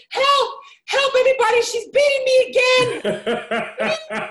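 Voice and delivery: put-on high loud laughing child's yell, slow at the end; hammed-up kid screaming for help; mock cry for help. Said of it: "I said".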